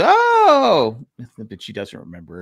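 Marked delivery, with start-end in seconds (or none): 0.0-1.0 put-on old lady's oh. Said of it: "And she goes".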